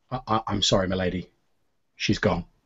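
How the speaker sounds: very sad, soft, gentle voice with a stammer. Voicing an old man finding a dead lady: very sad, soft voice. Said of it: "in a very sad, soft voice say".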